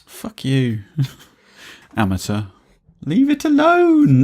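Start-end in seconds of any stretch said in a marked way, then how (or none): 3.0-4.2 high, loud, drawn-out exasperated cry; loud, slow, high-pitched protest. Real, not acted. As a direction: snap in exasperation, stretching the words. Exasperated telling-off over bumped mic.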